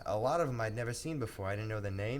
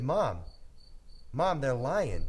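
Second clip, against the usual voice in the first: put-on kid protest; 3 semitones higher, 4 dB louder, slower than usual.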